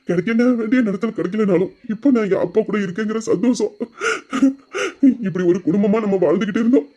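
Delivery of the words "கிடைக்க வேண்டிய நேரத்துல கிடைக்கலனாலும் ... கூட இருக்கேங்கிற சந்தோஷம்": happy tears breaking through; smiling through tears; tearful joy. Acted. Tearful joy about father. (ஆனந்தக் கண்ணீர் குரல்)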